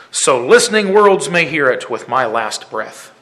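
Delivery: loud, ringing poem delivery with measured phrases; impassioned poem recitation. Acted. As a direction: declaim the verse with firm conviction.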